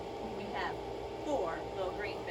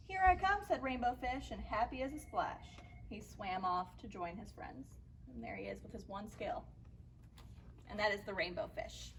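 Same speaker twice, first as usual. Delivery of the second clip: put-on measured picture-book reading for young listeners; story narration; 3 dB quieter than usual. A narrator's reading. Teacher reads a fish story to children, story narration.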